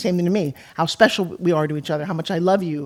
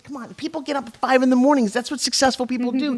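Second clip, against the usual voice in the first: mock lecturing; 6 semitones higher than usual. Retold nagging her husband to wake up.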